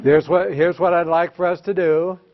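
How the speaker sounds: calm, composed colleague tone; nice professional voice. Shown as a demonstration. Teacher demonstrates calm phrasing for the principal. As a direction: lay out the plan evenly. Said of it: "in a nice professional voice".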